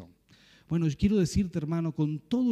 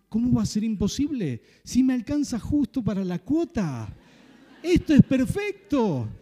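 put-on eager teen; 4 semitones higher, 3 dB louder than usual. Teen arguing the payment fits.

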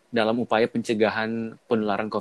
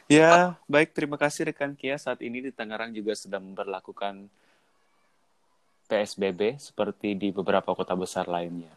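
parody news anchor. Pretend. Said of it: "kayak laporan terkini".

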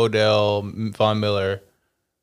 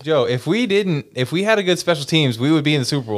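raised pitch, worked up without extra volume; insistent, higher-pitched outburst; mild yelling; 4 semitones higher, faster than usual. Real, not acted. Fan arguing to his co-host about special teams, mildly yelling. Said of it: "why are you yelling?".

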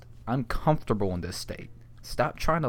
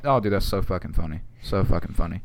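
sarcastic; 5 semitones lower than usual. Retold or imitated. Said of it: "And I'm like".

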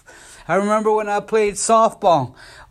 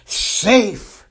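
imitated umpire's shout; 3 semitones higher than usual. Umpire calling the runner safe at home plate, mock shout. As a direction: call it out like an umpire, without full volume. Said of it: "the umpire would shout".

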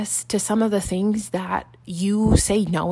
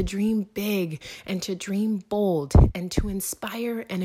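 soft, breathy-toned intro over music, half whispered in places; podcast intro read; 4 dB quieter than usual. Acted. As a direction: read the welcome like a hushed, inspiring opener.

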